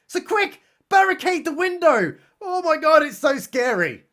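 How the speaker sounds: high and loud, hammed-up urgency; mock panic. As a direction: yell it like a frightened B-movie hero.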